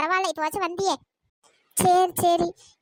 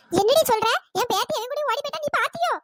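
indignant, rising challenge; angry; 3 semitones higher than usual. Acted. Grandmother challenges gossip about her granddaughter, angry. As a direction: confront the gossip angrily. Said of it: "ஆமா, இப்ப எதுக்கு கோவப்படுறீங்க?".

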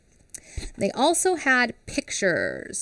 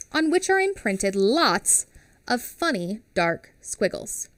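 reading a quote. Acted. Teacher sharing her favourite quote with the class, reverent. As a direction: savour each phrase. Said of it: "is a quote".

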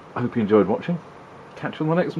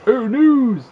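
much higher and louder, a silly squeaky cry; squeaky mock exclamation; 14 semitones higher, 8 dB louder than usual. Voicing a game cutscene character, squeaky high exclamation. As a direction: pop it up high like a cartoon extra shouting. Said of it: "and then on the back going".

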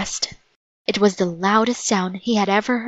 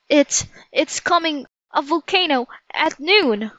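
higher-pitched, halting warning; stammered alarm; 7 semitones higher than usual. Acted. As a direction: stumble into an acted, anxious warning.

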